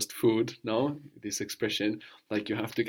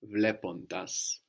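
slow model word; much slower than usual. Shown as a demonstration.

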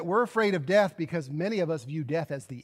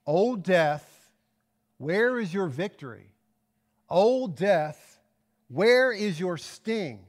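slow, deliberate challenge to death; arrogant challenge; slower than usual. Acted. Preacher reading Paul's challenge to death, almost arrogantly. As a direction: confront death, each phrase set apart. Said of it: "he's almost arrogantly confronting and challenging death".

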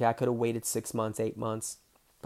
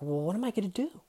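pitched-up, worried plea; mock panic; 9 semitones higher, faster than usual. Asking Dane for help with Gary, mock panic. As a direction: lightly voice his own helpless panic.

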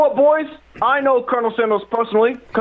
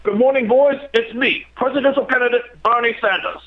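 Bernie Sanders impression. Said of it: "sounds like you're doing an Indian accent again".

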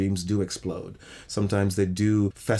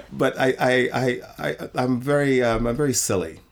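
laughing; 5 semitones higher, 3 dB louder than usual. Real, not acted. Laughing confession of silliness.

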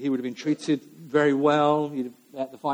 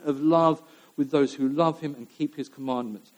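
prayerful reading. Acted.

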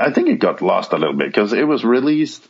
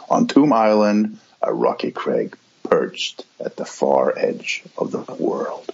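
grave ancient myth telling. Acted. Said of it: "That is fantastic".

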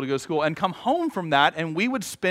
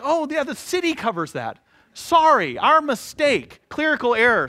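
mock utility clerk; 7 semitones higher than usual. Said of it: "they're like".

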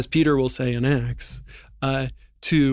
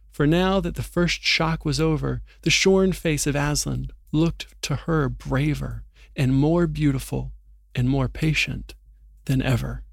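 steady audiobook read-aloud, letting the drama build; story narration; 3 dB louder than usual. Acted. Reading Narnia's arrest of Aslan to his co-host, story narration.

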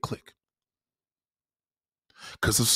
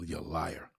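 low, soft, timid accusation; soft timid "you're a liar"; meek small-dick version; 7 semitones lower, 13 dB quieter than usual. Shown as a demonstration. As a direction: say it weakly, barely daring. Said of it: "See the difference?".

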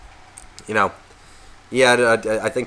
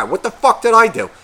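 high, loud fake-innocent protest; mock indignant; 10 semitones higher, 5 dB louder than usual. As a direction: play the clueless friend who's offended. Friend voiced protesting innocence.

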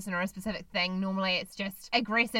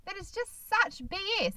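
scoffing dismissal; 10 semitones higher than usual. Retold or imitated. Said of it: "and I'm like".

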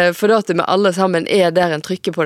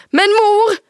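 very high, louder, pleading mother; high shrill protest; 5 dB louder than usual. Acted. Mother objecting to grandmother on the phone, high and shrill. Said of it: "Stemma, den er høg og skingrende".

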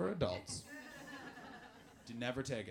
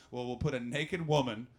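mock news editor; 5 semitones lower than usual. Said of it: "news people ... were like".

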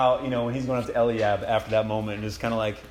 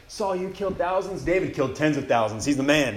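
mock fan excitement; acclaiming. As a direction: imitate a crowd hailing its hero. Crowd voiced hailing its new hero.

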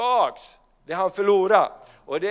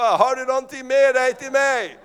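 put-on higher, louder hopeful childlike plea; eager child's question; 6 semitones higher, 6 dB louder than usual. Preacher imitates people asking their heavenly father for gifts. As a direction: ask like a child hoping for a gift. Voicing the believer asking God.

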